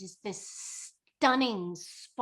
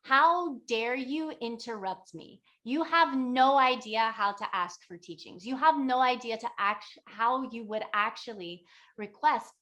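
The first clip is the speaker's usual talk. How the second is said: indignant mock scolding, louder on the attack; retold angry yell; 4 dB louder than usual. Enlightened lady rebukes the traveler who interrupted her, mock yell. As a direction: scold down at them, acting offended. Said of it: "she yells down".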